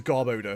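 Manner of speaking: Garbodor with "odour" inside it; long stressed OH in Garbodor; gar-BOH-duh. Shown as a demonstration. Streamer concedes the official way, gar-BOH-duh. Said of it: "There is odor in there".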